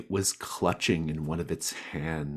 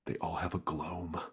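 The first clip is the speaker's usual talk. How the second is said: whisper; 6 dB quieter than usual. A narrator's reading. Narration slips into whisper.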